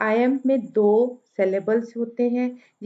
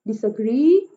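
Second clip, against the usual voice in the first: डिसएग्री with the last syllable gree punched, first two light; stress on gree; 4 dB louder than usual. Shown as a demonstration. Teacher showing the anapest to students, gree stressed. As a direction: hit gree at the end of डिसएग्री. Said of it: "last वाला जो है वो stressed है".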